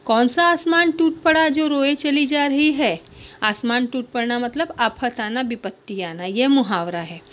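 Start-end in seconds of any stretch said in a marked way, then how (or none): 0.0-3.0 aunt scolding. Acted. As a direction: chide the crying girl like an aunt. Teacher voices aunt scolding. (रोती बच्ची को बुआ की हल्की डाँट)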